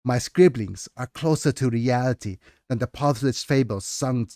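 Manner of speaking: measured storyteller reading; story narration. Acted. Author reading her novel to chat, measured narration. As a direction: read it like an old scribe's memoir.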